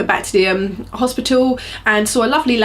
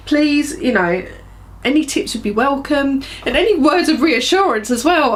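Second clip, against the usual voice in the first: teary; 4 semitones higher than usual. Real, not acted. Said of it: "I'm getting a bit emotional".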